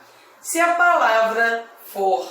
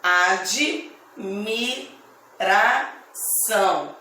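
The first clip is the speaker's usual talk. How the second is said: admiração stretched out slowly, each syllable apart; 2 semitones lower, much slower than usual. Shown as a demonstration. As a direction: sound out admiração slowly for the class. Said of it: "Depois a palavra admiração".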